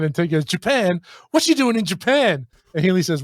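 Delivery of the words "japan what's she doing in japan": puzzled, higher-pitched question; surprised. Acted. Ted to Healy about Japan, surprised. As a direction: voice jumping up in surprise. Ted reacts to startling news.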